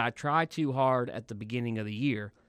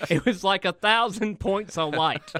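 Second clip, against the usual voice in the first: a hint of presidential impression, a little raised; George Bush; 5 semitones higher, 4 dB louder than usual. Riffing on a kinder trainer, light presidential impression. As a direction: lightly play the folksy president. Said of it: "a little Barbara Bush in there with the George".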